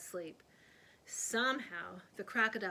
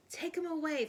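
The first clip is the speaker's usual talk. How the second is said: firmly; 6 semitones higher than usual. A narrator's reading. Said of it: "Father said firmly".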